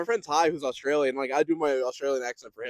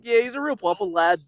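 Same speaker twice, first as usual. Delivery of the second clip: higher, louder mock Scouse; Scouse accent; 5 semitones higher, 6 dB louder than usual. Showing how Scousers say lad, Scouse accent. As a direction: put on a hearty Scouse lilt. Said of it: "and they say".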